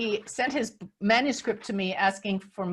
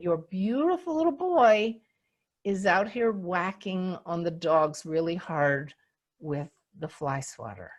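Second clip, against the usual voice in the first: sincere, no sarcasm; 3 semitones lower than usual. Retold or imitated. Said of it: "this next part with no sarcasm".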